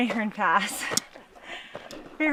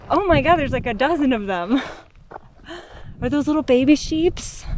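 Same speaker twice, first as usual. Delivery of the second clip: excited; 5 semitones higher than usual. Real, not acted. Delighted by a dozen sheep.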